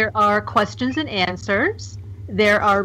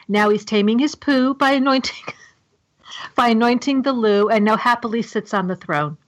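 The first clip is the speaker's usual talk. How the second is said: stifled giggles. Real, not acted. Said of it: "I'm trying not to laugh".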